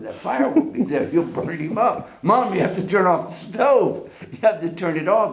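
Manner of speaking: put-on a child's high, urgent pleading to his mom; a young boy frantic over the stove, pleading with his mother; panicked child plea. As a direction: beg Mom to turn off the stove before Santa burns. Child panics that Santa will burn.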